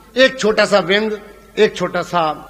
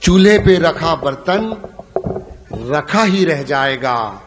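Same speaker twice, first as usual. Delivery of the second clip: poetic recital; 2 semitones lower, 4 dB louder, slower than usual. Shown as a demonstration. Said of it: "तालियां रोक के बताना".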